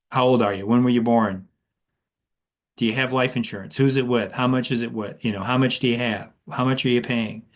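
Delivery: blunt checklist questioning; mechanical, one-after-another questions; interrogation. Shown as a demonstration. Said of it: "That sounds like an interrogation".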